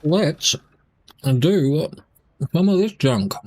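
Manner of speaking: words round a bite of biscuit; mouth full. Real, not acted. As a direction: talk with a mouth full of food. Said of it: "talking with my mouth full".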